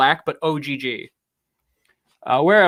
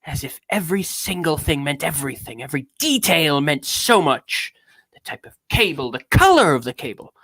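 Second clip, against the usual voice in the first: grand, measured theatrical oration; lightly pompous affected reading; Orson Welles. Acted. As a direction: lean on key words like a stage great. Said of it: "talks like Orson Welles all the time".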